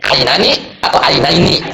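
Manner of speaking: slow, each syllable of ainani and ainaini spelled out clearly; teacher modelling ainani and ainaini slowly for students; careful Arabic pronunciation. Shown as a demonstration. Teacher slowly models both Arabic dual forms. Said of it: "Kalau dua mata itu".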